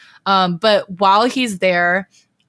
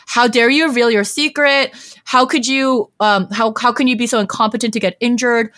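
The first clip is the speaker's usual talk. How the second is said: retold angry berating; 3 semitones higher than usual. Mother scolding her son for getting injured, mock furious. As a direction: play the furious mother tearing into him, at half strength. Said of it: "Madame Yu is pissed".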